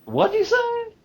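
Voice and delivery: high, loud put-on old man asking back; mock deaf old man. Grandpa teasing his daughter, mock deaf and loud. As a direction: play a grandpa pretending not to hear. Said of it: "was just messing with her".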